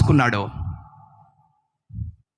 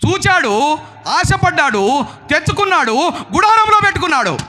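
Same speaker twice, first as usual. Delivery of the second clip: raised sermon storytelling, building at the end; forceful preaching; 9 semitones higher than usual. Real, not acted. Preacher telling the church of Achan's theft, forceful preaching. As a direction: drive each step of the story home.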